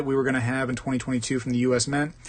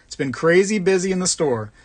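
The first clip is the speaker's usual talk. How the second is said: quoting Coin Guy; 5 semitones higher, 4 dB louder than usual. Retold or imitated. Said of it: "which has been his beginning sentence".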